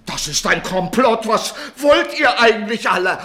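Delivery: furious shout at everyone; angry yelled question; angry outburst. Acted. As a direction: shout it at the whole room. Doctor raging at the others.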